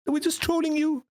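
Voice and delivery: high teasing singsong; mocking friend. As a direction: sing it out to mock him. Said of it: "And it's like".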